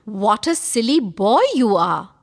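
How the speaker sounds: ordinary delivery, nothing marked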